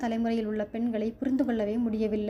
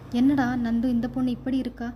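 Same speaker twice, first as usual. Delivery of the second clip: mild surprise; 5 dB louder than usual. Acted. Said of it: "ராஜத்துக்கு ஆச்சரியம்".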